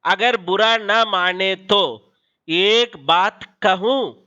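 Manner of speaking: slow, polite asking tone with a rise on कहूं; question tune. Shown as a demonstration. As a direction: ask it gently, lifting the end on कहूं. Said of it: "वाक्य बोल रहा हूं देखिए". (धीमे, विनम्र प्रश्न का लहजा, कहूं पर आवाज़ ऊपर)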